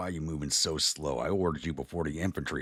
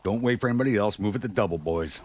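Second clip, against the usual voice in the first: higher, louder order to the troops; commander's urging call; 5 semitones higher, 4 dB louder than usual. Pretend. Player to game troops on the march, urging command. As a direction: call out a playful order to hurry.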